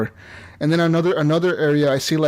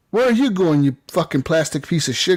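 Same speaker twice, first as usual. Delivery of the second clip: angry; 3 semitones higher than usual. Retold or imitated. Protester confronting the robot.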